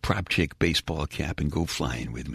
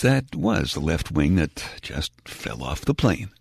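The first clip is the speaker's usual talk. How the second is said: bored airline captain; 3 dB louder than usual. Retold or imitated. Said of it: "They even know how to sound bored on the plane's P A system".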